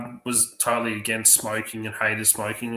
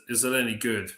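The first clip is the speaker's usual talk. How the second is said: mock disbelief. Echoing the question back, amused.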